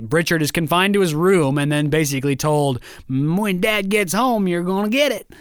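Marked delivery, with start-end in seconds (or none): 3.1-5.3 lightly acted "you're in trouble"; mock warning. Family's warning to Richard, retold.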